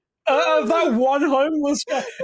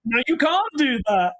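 put-on Irish accent. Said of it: "Why is Hammond Irish now?".

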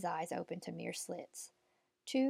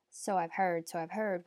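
put-on breathless old person. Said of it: "wheezed the old woman".

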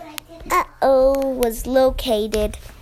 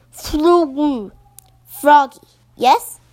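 puffed-up pufferfish; 3 semitones higher, 5 dB louder than usual. Acted. Blowfish asks.

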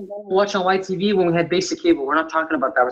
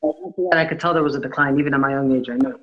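muffled, like speaking underwater; bad mic, sound muffled underwater. Real, not acted. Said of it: "You sound like you're underwater".

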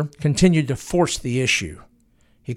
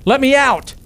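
much higher, louder desperate plea; pleading; 10 semitones higher, 5 dB louder than usual. Acted. Harold pounding on the locked door, desperate high pleading. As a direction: beg to be let out of the fire. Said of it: "and pleaded".

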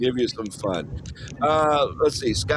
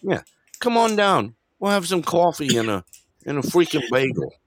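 lightly hammed-up Boston accent; 4 semitones higher than usual. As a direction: invite them over in Boston-speak. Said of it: "That's how they talk in, uh, Boston".

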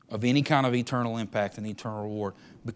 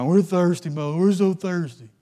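high, loud, hammed-up whining; mock a crowd of whiners, dragging out the last word; whiny complaining; 6 semitones higher, 11 dB louder, slower than usual. Israelites complaining about the bitter water, mock whine. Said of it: "getting mad and complaining there".

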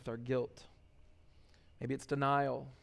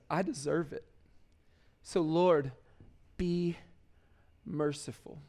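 a hushed, contrite prayer; humble plea for mercy; 3 dB quieter than usual. Retold or imitated. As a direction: softly confess and beg for mercy.

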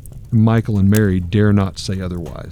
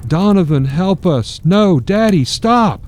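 crying out; 9 semitones higher, slower than usual. Acted. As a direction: beg the father to stop, rising. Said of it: "Michael cried out".

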